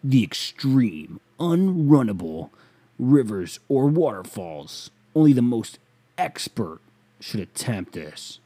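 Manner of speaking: slow, loud and drawn-out mock white guy read; hammed-up white guy brochure voice. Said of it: "in the most fucking white guy shit".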